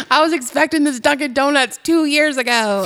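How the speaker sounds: put-on indignant complainer; mock outrage. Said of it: "mad about something".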